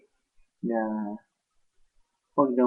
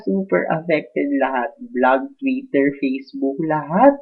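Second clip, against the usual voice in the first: louder and slow, word by word; indignant rant; 3 semitones higher, 6 dB louder, slower than usual. Real, not acted. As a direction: list it all out in outrage. Inilalahad ang pinsala. (malakas at mabagal na paglilista ng hinanakit)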